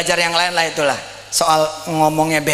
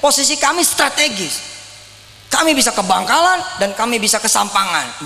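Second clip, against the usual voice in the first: proud pitch; 4 semitones higher than usual. Shown as a demonstration. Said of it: "kita harus ngomong gini".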